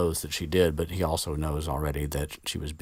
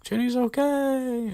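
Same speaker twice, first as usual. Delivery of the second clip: Harry reassuring; 4 dB louder, slower than usual. Retold or imitated. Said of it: "Harry's like".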